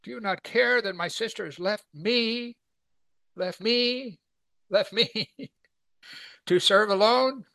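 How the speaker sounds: high-pitched wounded complaint; aggrieved Martha. Acted. Martha telling Jesus she was left to serve alone, high complaint.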